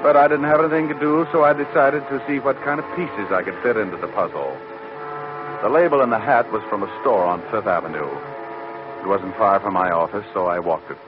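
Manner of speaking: wry noir voice-over; hard-boiled narration. A narrator's reading. Detective narrating the case to listeners, wry and dry. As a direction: tell it like a tired private eye.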